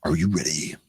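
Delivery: low, dramatic trailer voice; lightly voiced movie theater announcer. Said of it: "in movie theater announcer voice".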